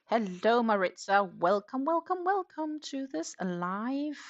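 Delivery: high, loud sing-out greeting; effusive, high-pitched hello; excited welcome. Real, not acted. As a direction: welcome a newcomer with a big, drawn-out flourish. Greets a viewer joining the live.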